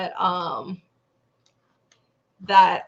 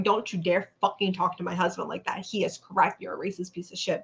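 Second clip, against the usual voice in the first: understated, level telling-off as the wife; calm retold rebuke; 4 dB quieter than usual. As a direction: imitate a wife calmly putting someone down. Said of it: "calmly and starts going".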